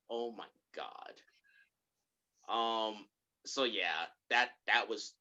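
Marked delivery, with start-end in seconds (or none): 0.1-1.2 slow, very soft disbelief; exasperated near-whisper. Retold or imitated. Viewer rolls their eyes at the scene, slow whispered exasperation. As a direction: breathe it out like an eye roll. Voicing eye-rolling viewer.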